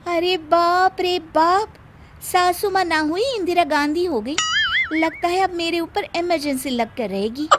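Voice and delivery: sarcastic aside. Acted. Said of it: "और कहती है".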